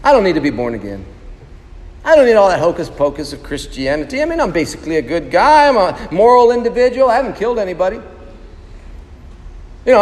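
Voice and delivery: lightly mocking a self-satisfied good guy; smug churchgoer-skeptic. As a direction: imitate a smug man excusing himself. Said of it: "how often do you hear people say".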